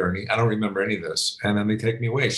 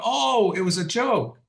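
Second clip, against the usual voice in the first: retold realisation; 10 semitones higher, slower than usual. Retelling moment of realising the prank.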